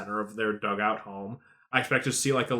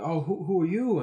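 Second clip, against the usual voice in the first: mock passerby; 6 semitones higher than usual. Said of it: "it's like".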